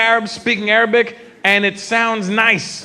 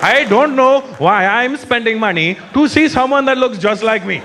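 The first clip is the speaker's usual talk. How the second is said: put-on Indian accent. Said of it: "That's the look on their face".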